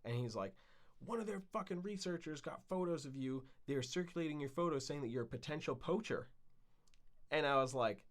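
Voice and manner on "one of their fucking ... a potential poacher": alarmed friend. Retold or imitated. Kevin voiced with alarming news.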